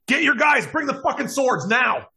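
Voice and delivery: high, urgent holler across a hall. Acted. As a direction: holler an alarm as a panicked worker. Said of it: "you just hear him holler".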